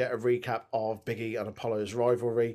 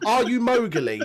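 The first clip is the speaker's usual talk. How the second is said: incredulous laugh; 8 semitones higher, 6 dB louder than usual. Real, not acted. Disbelieving joke at lion story.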